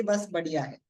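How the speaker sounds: casual imitation of a so-so reply; lukewarm stock answer. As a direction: imitate a routine, unenthusiastic answer. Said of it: "वो लोग ये नहीं बोलते".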